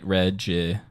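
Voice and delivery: "Regimented" broken up with long gaps; separated syllables. Shown as a demonstration. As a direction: leave space after each syllable of "Regimented". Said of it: "Separate out the syllables of them like this".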